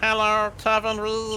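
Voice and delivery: put-on high robotic voice. Trying out a robotic voice on a greeting, put-on robotic voice. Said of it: "that was not the best robotic voice ever".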